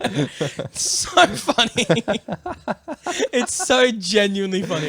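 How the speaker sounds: high, laugh-filled gushing. Real, not acted. Telling her cohost about the podcast, laughing. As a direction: giggle through the words.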